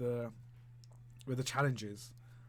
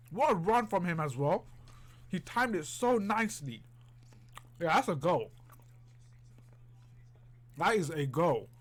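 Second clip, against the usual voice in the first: excited; 4 semitones higher than usual. Real, not acted. Cheering a run and goal.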